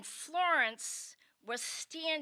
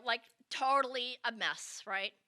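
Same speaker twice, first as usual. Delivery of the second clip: ordinary talk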